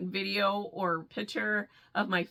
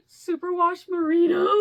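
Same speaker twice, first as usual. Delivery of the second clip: gasp, then high excited reveal; thrilled, pitched-up unveiling; awed reveal; 7 semitones higher, 4 dB louder than usual. Acted. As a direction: gasp and announce it like a treasure. Gasping reveal of gifted yarn.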